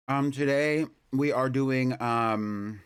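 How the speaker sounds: talking while chewing food; mouth full. Real, not acted. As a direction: speak through a mouthful. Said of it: "I'm eating something".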